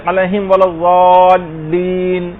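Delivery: ولا الضالین slow, the ضا drawn out; with the madd. Shown as a demonstration. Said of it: "اس کے اندر بھی ایک مد آتا ہے". (الضالین میں مد کھینچ کر آہستہ پڑھنا)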